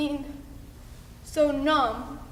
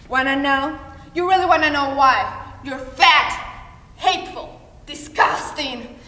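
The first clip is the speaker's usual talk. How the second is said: cruel mother; 3 dB louder than usual. Acted. Mother's cruel reply to child.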